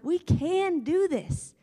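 overjoyed hype voice for the crowd; grinning cheerleader. Acted. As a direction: gush it out through a huge smile. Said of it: "just smiling like".

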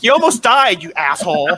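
high-pitched, laughing scold through giggles; laughing mock scold. Retelling how she scolded her friend, laughing mock scold. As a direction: pretend to scold but crack up laughing.

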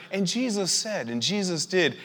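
audio Bible narrator. Retold or imitated. Imitating the Bible app's narrator for the congregation, soft narrator voice. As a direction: read it softly, like a mock audiobook narrator. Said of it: "the narrator's like".

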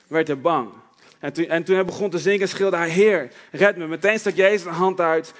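measured Bible reading with pauses between phrases; scripture reading. Acted. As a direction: read the Gospel story aloud to a congregation. Reads Bible passage aloud. (Bijbellezing, voorgelezen met pauzes)

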